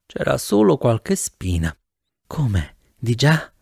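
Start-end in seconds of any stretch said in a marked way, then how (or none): 2.3-3.5 understated sultry question; lightly voiced seductive woman, keeping it low; low, sensual. A narrator's reading. Woman in the car questioning her passenger, low and sensual. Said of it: "con una voce bassa e sensuale".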